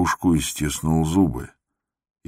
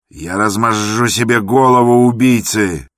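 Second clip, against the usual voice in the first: loud, higher desperate yell; frantic shout; 6 semitones higher, 7 dB louder than usual. Acted. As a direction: scream it in frenzy. Иван Дмитрич в исступлении. (исступлённый крик)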